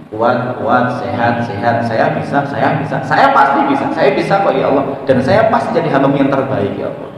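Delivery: loud, firm affirmations, rising on pasti; loud self-affirmation. Shown as a demonstration. Preacher showing how to tell yourself you are strong, loud. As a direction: declare it loudly, convincing yourself. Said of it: "Itu disampaikan".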